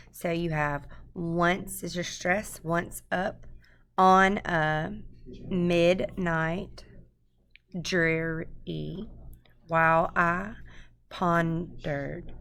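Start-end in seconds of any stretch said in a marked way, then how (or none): 1.1-12.3 once up, on a midnight, dreary, each stressed beat leaned on, slow and broken apart; trochaic scansion. Shown as a demonstration. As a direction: tap out every trochee, strong then weak, pausing between feet. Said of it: "sounds really strange to say it that way".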